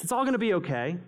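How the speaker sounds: mock cheerful platitude. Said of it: "Hey, pithy statements".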